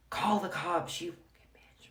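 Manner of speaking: high mock yell, trailing away; retold screaming. Husband screaming out the window at neighbor, mock yell. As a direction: imitate a taunting scream without full volume. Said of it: "He starts screaming out my window".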